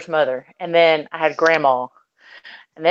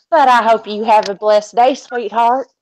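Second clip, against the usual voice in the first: sugary Texas brush-off; 2 semitones higher than usual. Retold or imitated. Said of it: "hear a Texas woman say "sweetheart".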